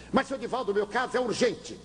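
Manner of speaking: high, pleading man's voice; pleading father. Retold or imitated. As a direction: beg him as the anxious father. Anxious father pleads for help.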